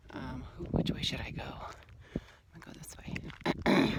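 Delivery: slow whispered musing about the path; whispering to herself. Real, not acted. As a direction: whisper the choice to yourself. Deciding her path while walking.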